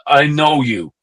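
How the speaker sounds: imitating a Dutch rocker's accent. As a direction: lightly put on a Dutch accent. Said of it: "goes to me in a Dutch accent".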